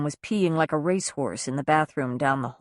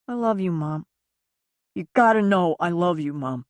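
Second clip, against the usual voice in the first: son's voice, fighting sobs; tearful son. Acted. Son tells leaving mother he loves her, tearful. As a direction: hold back the sobs as you say it.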